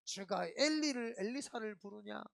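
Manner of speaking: lightly hammed-up taunt; mocking sneer. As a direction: sneer it like a scoffer. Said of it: "막 하면서 조롱하고".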